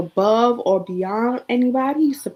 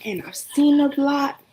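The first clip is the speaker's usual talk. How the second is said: really trying not to cry; choked up, words partly voiceless; holding back tears; 4 semitones higher, faster than usual. Real, not acted. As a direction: voice giving out with emotion. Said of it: "I don't wanna cry".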